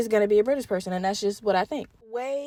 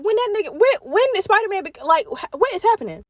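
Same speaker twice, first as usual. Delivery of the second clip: confused; 8 semitones higher than usual. Retold or imitated. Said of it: "I was like".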